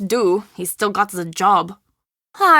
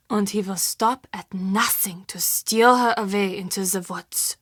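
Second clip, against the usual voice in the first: fading whisper, softer to the end; 2 semitones lower, 5 dB quieter than usual. Acted. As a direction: whisper the legend, trailing away. Recounting the monster legend.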